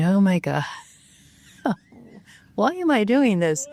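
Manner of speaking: high, laughing "why am I doing this?"; half-laugh at the absurdity of it; laughing disbelief. Retold or imitated. Actor recalling chanting in the basement, laughing in disbelief. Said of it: "I was thinking".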